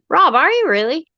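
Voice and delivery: high, rising amazed question; genuinely taken aback by the news; surprised. Real, not acted. Surprised at host's age.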